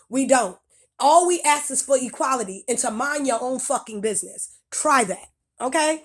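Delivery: furious lecture; angry rant. Real, not acted. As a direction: let it all out at them. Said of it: "That's why I spoke angrily".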